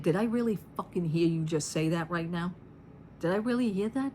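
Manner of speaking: stunned inner voice, a touch incredulous; inner disbelief. Retold or imitated. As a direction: think it in shocked disbelief. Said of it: "I'm saying it that way because that's the way it was in my head".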